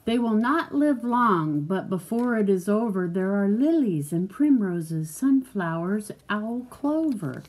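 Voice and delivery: measured, lilting picture-book read; reading to a child. Acted. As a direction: read it out clearly for a young listener.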